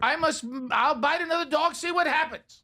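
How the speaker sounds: high-pitched bad French accent; hammed-up French-accented dog; terrible French accent. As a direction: play a dog in shrill mock French. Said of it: "a French Shepherd".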